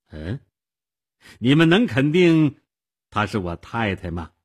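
rising to an eager question; hopeful. Acted. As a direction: ask with sudden hope. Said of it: "又满怀希望地问".

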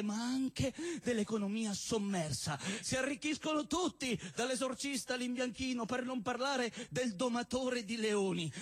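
a stand-up poet reciting with mock gravity; comic poem recitation. Poet reciting a love poem to the crowd, mock solemn. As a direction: declaim the absurd verses like a serious love poem.

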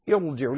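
"ارجعوا" with a heavy, full ra. Shown as a demonstration. Teacher giving the correct reading, "ارجعوا" with heavy ra. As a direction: thicken the ر in "ارجعوا". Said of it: "لأنها ليست أصلية".

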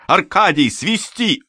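high shouted order; urgent cry. A narrator's reading. Companion ordering the deacon to whistle, urgent cry. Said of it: "закричала моя спутница".

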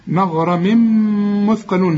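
مغرم with an emphatic غ, then مثقلون; careful recitation demo. Shown as a demonstration. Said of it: "الغين هي المفخمة".

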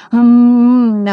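happy muffled hum through a gag; glad gagged mooing. Acted. Scooperfield gagged, greeting his rescuers with a happy moo. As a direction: moo gladly through the gag, high and loud. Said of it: "обрадованно замычал Скуперфильд".

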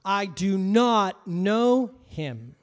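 slow, loud, forceful denial; angrier denial. Retold or imitated. Peter angrily denying Jesus to the servant girl. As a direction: bang out each word in anger. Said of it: "saying it more angry every time".

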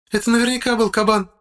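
high woman's voice, exclaiming. A narrator's reading. Wife exclaiming it was a boar, high voice. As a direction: blurt it out sure of herself. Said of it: "восклицает она".

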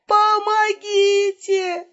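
high, slow, drawn-out scream for help; fake cry for help. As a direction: call out as if in mortal danger. Elena cries for help.

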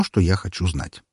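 ordinary delivery, nothing marked

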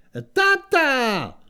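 put-on high, loud cracked old man; a happy deaf old-timer; old man croaking. A narrator's reading. (vysoký skřípavý stařecký hlas)

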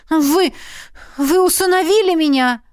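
put-on a scandalised young woman; shocked girl. A narrator's reading. Heroine protests.

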